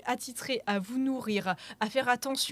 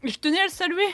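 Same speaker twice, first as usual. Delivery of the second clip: parler avec un bonbon en bouche; la bouche occupée par un bonbon; bonbon dans la bouche; 4 semitones higher, 4 dB louder than usual. Real, not acted. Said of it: "j'ai un bonbon dans la bouche". (articuler autour d'un bonbon)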